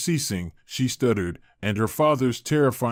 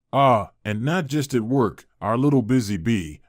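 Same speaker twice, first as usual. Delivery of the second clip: sly. Acted. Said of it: "the old lady said slyly".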